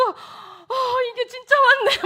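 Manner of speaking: imitating a son's high, loud amazement; overexcited boy's voice; amazed exclaiming. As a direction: shout it high, can't believe it came. Son amazed at the parcel.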